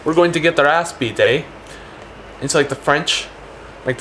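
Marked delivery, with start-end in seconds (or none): 0.0-1.4 higher-pitched Canadian with a tagged "eh"; lightly voiced worried Canadian; improvised Canadian. Canadians hearing of the invasion, improvised Canadian voice. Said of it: "And the Canadians are like".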